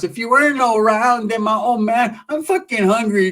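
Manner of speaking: high, dragged-out mocking impression; Sheila. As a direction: mimic her, stretching the words up high. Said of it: "that's how she talks".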